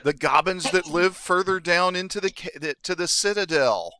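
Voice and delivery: put-on high, childlike kobold; squeaky childlike voice. Kobold telling where thieves live, squeaky and childlike. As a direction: explain it like a small squeaky creature. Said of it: "this squeaky, childlike voice".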